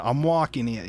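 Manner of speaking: hammed-up New York accent; mock New York accent. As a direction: play the stock New Yorker accent. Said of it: "New York is his".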